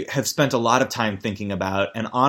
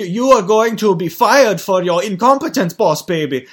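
put-on loud, high German-accented boss voice; mock German-accented baby tyrant; Mega Fat CEO Baby; 8 semitones higher, 6 dB louder than usual. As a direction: pronounce the threat in a hammy German accent. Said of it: "who's got a German accent".

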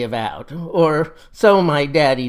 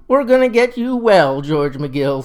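father reassuring. Acted. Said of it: "says he".

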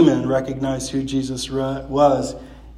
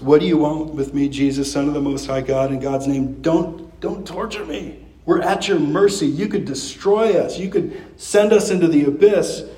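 lightly voiced frightened pleading, pitch raised; demons begging for mercy. Preacher voicing demons begging Jesus, mildly pleading. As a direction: plead for mercy, a touch of fear in it. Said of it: "reduced to a posture of begging".

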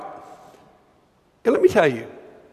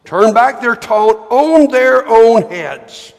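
angry prayer reading. Acted. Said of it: "this is not a pretty prayer".

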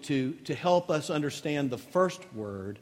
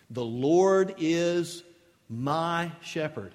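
tender reading; slower than usual. Acted. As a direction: savour each word gently.

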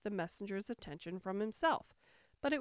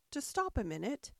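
raised, halting, winded plea; acted breathlessness from running; panting; 5 semitones higher than usual. A narrator's reading. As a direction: break it up with gasps for breath. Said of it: "Alice panted out".

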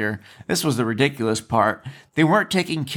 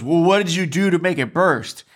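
higher-pitched mock blame; accusing; 4 semitones higher than usual. Staff member blaming the injured girl, accusing. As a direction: imitate someone pinning the fault on her. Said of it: "As if it was her fault".

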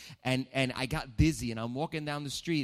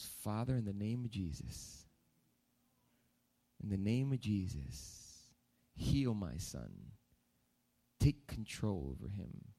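quiet prayer; 3 dB quieter than usual. Retold or imitated. Dad prays over son.

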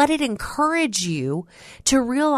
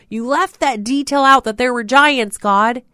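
"out" hit loud, higher and louder; louder repeat; 3 semitones higher, 5 dB louder than usual. Retold or imitated. Preacher pressing the complaint to God, louder. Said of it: "And I'm like".

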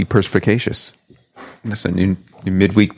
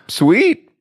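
high, rising laid-back Sweet; surfer dude; 13 semitones higher than usual. Pretend. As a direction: shrug it off like a chill surfer. Surfer reply, sweet bit.

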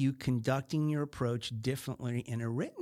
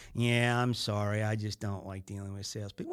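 sheepish apology; 4 semitones lower than usual. Retold or imitated. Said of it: "kinda chuckled about it".

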